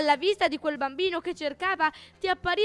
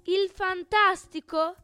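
pompous self-praise, slowing down at the end; boastful; 3 semitones higher than usual. Acted. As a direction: show off each grand title. Il Bugno elenca le sue lodi. (vanto pomposo e lento)

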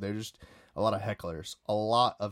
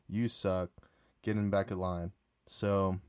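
usual speaking voice

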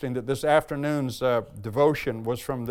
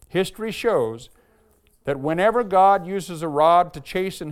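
raised, measured reading voice, lingering on key lines; devotional reading; 4 dB louder than usual. Acted. Pastor reading Spurgeon's devotion to the church, raised and measured. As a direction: read it like an old sermon to the congregation.

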